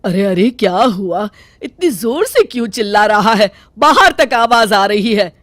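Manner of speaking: a hint of an older mother scolding; mother stepping in to calm things; mother-in-law. (सास की हल्की डाँट)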